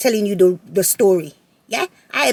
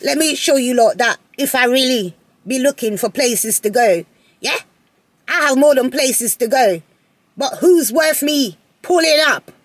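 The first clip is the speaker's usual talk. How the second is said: sassy inner boast. Retold or imitated. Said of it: "I'm thinking".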